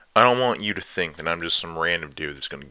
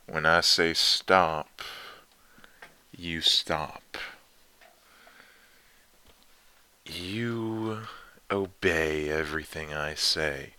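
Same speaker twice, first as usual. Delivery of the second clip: teasing dom lover; slower than usual. Acted. Dominant lover teasing listener.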